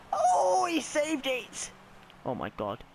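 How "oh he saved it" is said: dismayed surprise. Real, not acted. Shot saved by keeper.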